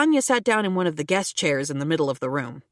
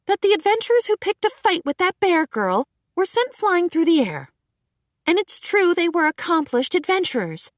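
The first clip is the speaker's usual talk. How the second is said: higher, steady and authoritative; commanding; 10 semitones higher, 3 dB louder than usual. A narrator's reading. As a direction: lay down the law without shouting. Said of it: "said Sonya in a commanding voice".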